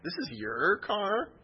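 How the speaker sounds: slow, high rise on "This is your car?", "is" stressed; slow incredulous rise imitating her; mock surprised question. Retelling a professor's disbelief at his car, mock incredulous. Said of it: "She said it just like that".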